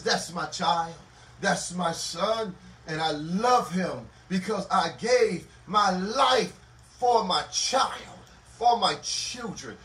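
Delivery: slow, measured voice of a loving father; drawn-out, heartfelt declaration; tender fatherly pride. Acted. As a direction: claim your child slowly and tenderly. God proudly claims his child.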